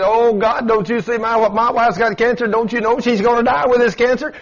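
high, anguished plea from a frightened husband; pleading husband. Retold or imitated. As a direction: beg like a man afraid for his wife. Husband pleading over wife's cancer.

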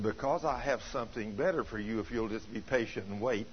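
a measured, stern reply from God; bold and stern. Retold or imitated. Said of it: "very boldly and sternly".

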